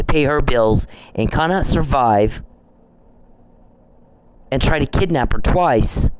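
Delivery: retold emphatic condemnation, measured and deliberate; mildly indignant retelling with weighted words. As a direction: lay down each point firmly, as the man did. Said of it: "He was very emphatic".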